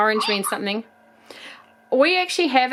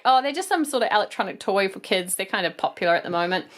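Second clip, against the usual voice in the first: acting ignorant; 2 semitones lower, faster than usual. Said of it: "I acted a bit ignorant".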